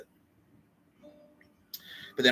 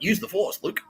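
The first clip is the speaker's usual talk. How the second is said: pitched way up, mocking; high mock voice; 11 semitones higher than usual. Kitty cheering him on, in a high mock voice. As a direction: squeak it like a sidekick. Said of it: "It's like".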